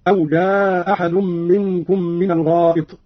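"جاء أحد" with one hamza; dropped hamza, alternative length. Shown as a demonstration. Teacher showing madd option, "جاء أحد" with one hamza dropped. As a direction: merge "جاء أحد" into one glottal stop. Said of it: "ونلاحظ أن له مع الإسقاط القصر والمد".

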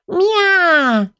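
высокий, протяжный кошачий мяв; мяукнуть с надрывом, по-кошачьи; надрывное мяуканье. Acted. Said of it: "надрывно повторила я". (надрывное «мя» тонким голосом)

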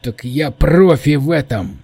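drawn-out boast of an eager volunteer; eager exclamation. Acted. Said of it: "воскликнул Джованни".

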